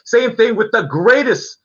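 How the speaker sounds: lightly voiced circus ringmaster. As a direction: announce it like a big-top showman. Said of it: "ladies and gentlemen, boys and girls, children of all ages".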